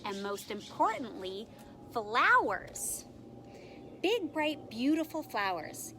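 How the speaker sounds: put-on animated read-aloud for young children; expressive storytime reading with lightly acted quotes; picture-book narration. A narrator's reading. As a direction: tell it like a picture book, leaning on key words.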